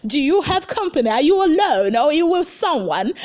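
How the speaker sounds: put-on a touch of suspicious girlfriend grilling; mock jealous girlfriend. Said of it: "Diane was like".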